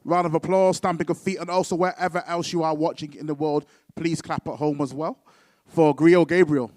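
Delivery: loud hype-man call to the crowd; announcer hype. Real, not acted. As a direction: whip up the applause, drawing out the poet's name. Host hyping crowd for next poet.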